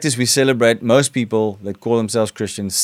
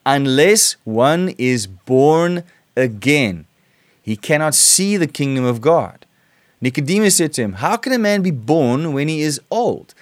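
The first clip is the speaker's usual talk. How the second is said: scripture reading; 2 semitones higher than usual. Acted. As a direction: read the verses with weight, like a sermon. Preacher reads John 3.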